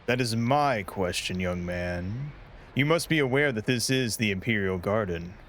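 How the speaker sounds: a regal emperor challenging an intruder; stern emperor voice. Acted.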